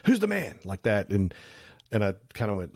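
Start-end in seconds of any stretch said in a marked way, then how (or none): 0.1-0.6 high, pitched-up imitation of a booming greeting; mock shout. Photographer imitating President Bush shouting on arrival, high mock shout. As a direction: bellow it like a boss entering the room. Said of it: "he started shouting".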